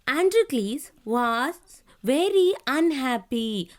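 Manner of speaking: slow, deliberate textbook reading with long pauses; careful classroom read-aloud; reading to children. A narrator's reading. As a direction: read it out phrase by phrase for young pupils. Reads lesson aloud to children.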